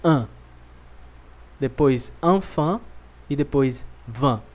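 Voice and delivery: "enfant" slow, with nasal vowels; nasal "An" and "van"; French nasal vowels. Shown as a demonstration. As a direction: draw out the nasal sounds. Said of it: "já dizemos assim".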